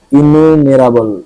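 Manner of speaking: slow, careful ইনুমেরাবল; slowly spelled-out ইনুমেরাবল; careful pronunciation. Shown as a demonstration. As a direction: sound out ইনুমেরাবল slowly, syllable by syllable. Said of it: "এই উচ্চারণটা আমার এত কষ্ট লাগলো".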